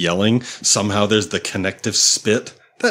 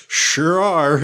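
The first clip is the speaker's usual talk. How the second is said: casual quote; 8 semitones higher, 3 dB louder than usual. Retold or imitated. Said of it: "And Constantine's like".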